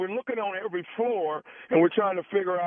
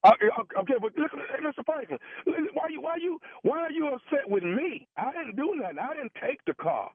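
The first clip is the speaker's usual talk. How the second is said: defensive; 7 semitones higher than usual. Acted. Prankster feigning a defensive manager.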